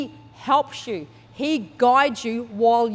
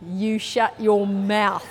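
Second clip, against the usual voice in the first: mouthed threat; 3 semitones lower, much slower than usual. Retold or imitated. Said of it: "mouthing things anyway".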